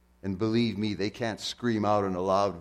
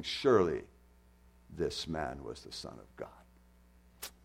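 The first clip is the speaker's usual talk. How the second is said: much softer, slow, fading into awe; awed hushed confession; 6 semitones lower, 6 dB quieter, slower than usual. Retold or imitated. Centurion at the cross confessing Jesus, hushed and slow. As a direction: let it fall to a hushed wonder. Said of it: "boldly standing there saying".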